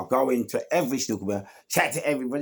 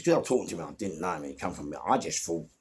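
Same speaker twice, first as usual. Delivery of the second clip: usual speaking voice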